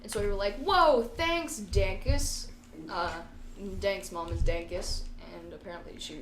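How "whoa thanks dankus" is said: mildly wowed, pitched up then settling; a touch of mock amazement; amazed thanks. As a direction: act out a grateful "whoa". Acted quote of amazed thanks.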